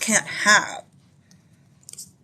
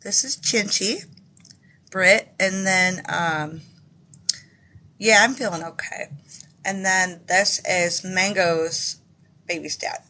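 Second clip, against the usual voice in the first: speaking around a dental temp; slight lisp. Real, not acted. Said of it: "Sorry, guys, if I'm talking weird".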